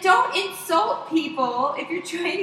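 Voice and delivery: acted scolding. Acted quarrel with the panhandler.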